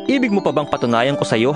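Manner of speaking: ordinary talk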